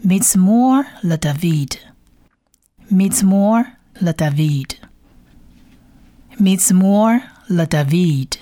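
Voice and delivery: slow model reading of "Mizmor le David"; "Mizmor" drawn out, then "le David" carefully; Hebrew reading aloud. Shown as a demonstration. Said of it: "所以念起来是". (希伯来语慢速领读“Mizmor le David”)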